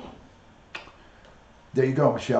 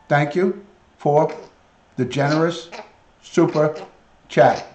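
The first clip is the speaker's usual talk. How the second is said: prompting pet voice; 2 semitones higher, 4 dB louder than usual. Acted. Prompting parrot to say thanks.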